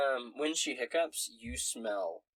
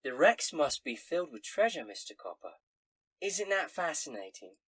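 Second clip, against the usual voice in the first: barmaid gossip voice; 4 semitones higher, 3 dB louder than usual. Acted. Barmaid tells rumor.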